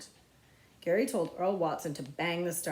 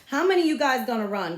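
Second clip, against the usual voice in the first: louder, higher bossy demand; 6 semitones higher, 9 dB louder than usual. Acted. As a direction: bark it at the crowd. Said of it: "Gary Fulcher demanded".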